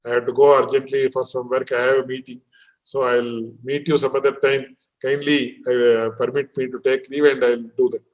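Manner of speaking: politely bow out of the meal. Retold or imitated. Teacher acting out a guest's polite exit, softly courteous. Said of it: "very politely say".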